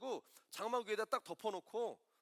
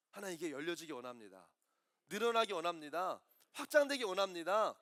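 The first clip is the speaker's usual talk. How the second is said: sample prayer; 2 semitones higher, 4 dB louder than usual. Pretend. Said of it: "하나님 앞에 나아가서".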